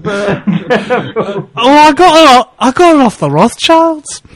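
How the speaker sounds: high-pitched retold answer to the wife; mock proud reply. Acting his reply to wife.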